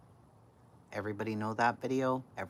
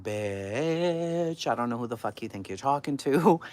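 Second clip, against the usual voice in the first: loud, high mock yell with a drawn-out first word; hammed-up outrage, yelled back at him; retold angry yell; 5 semitones higher, 8 dB louder than usual. Daughter yelling back at screaming dad, hammed-up anger.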